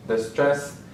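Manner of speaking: ordinary talk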